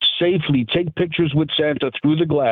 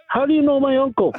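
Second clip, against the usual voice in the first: laughing; 10 semitones higher than usual. Retold or imitated. Retold punchline quote, laughing.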